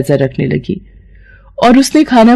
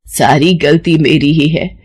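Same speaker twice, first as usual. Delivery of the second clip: tearful regret; 3 semitones lower than usual. Acted. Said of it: "उसकी सास की आंखों में आंसू आ जाते हैं".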